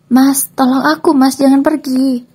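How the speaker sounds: high, loud tearful cry for help. Acted. Ex-wife cries out to husband leaving the station, high tearful wail. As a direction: wail after him as he leaves. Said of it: "Salun berteriak sembari menangis".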